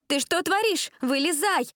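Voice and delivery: high, loud panicked yell; shouting. Acted. A girl yelling at the boy taking the wheel, panicked shout. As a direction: scream at him to get out. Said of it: "закричала Джессика".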